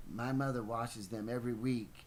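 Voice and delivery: lightly voiced schoolboy quote; boy's retort, redone. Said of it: "he wouldn't say it like that. He'd say".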